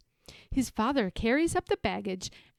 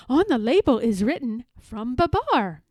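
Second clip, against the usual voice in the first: breathless, louder bird voice; 2 semitones higher, 6 dB louder than usual. Acted. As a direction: rush it out, out of breath. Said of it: "says the nightingale breathlessly".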